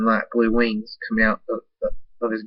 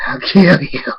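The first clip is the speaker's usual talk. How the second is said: angry threat; 6 semitones higher, 7 dB louder, slower than usual. Acted. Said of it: "Oh, my bad".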